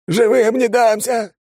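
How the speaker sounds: very high, loud, slow hysterical scream; hysterical yell. A narrator's reading. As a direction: shriek in blind panic. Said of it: "истерично вопил он".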